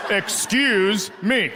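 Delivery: slow, stretched mock call with a laugh; drawn-out excuse me. Comic plays the fake husband, dragging excuse me out slowly. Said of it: "So I go".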